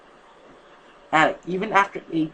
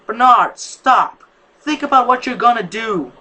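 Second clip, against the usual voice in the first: loud, higher yell to stop him; 6 semitones higher, 9 dB louder than usual. A narrator's reading. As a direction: shout him down. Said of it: "yelled at him".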